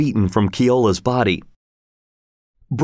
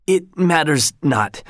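slow, higher, winded wizard; breathless gasp; 5 semitones higher, slower than usual. A narrator's reading. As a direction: gasp it out, still short of breath. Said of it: "gasped Kalamake".

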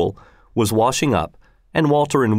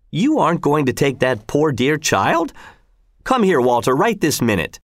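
lightly voiced worried wife, higher; a hint of a nagging housewife objecting; fretful mother; 4 semitones higher than usual. Mother calls the boy back.

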